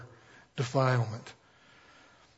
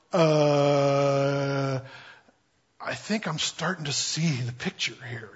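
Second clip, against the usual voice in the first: sheepish Peter; 2 semitones lower, slower than usual. Acted. Peter finally getting it.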